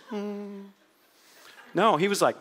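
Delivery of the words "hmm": serene hum. Acted. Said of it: "like the white Jesus in the pictures".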